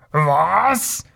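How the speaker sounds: rising, incensed "what" in character; outraged bellow. A narrator's reading. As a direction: burst out in offended disbelief. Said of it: "brüllte er". (empörter Ausruf mit steigendem Ton)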